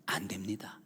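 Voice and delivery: soft voiceless denial; whisper. Real, not acted. Preacher answering his own question, whispered. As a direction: whisper it firmly. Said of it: "preacher whispers denial".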